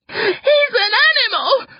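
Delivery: high, tearful wail of outrage; sobbing. A narrator's reading. Sister accusing brother to parents, sobbing. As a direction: sob the accusation out. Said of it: "Gret sobs".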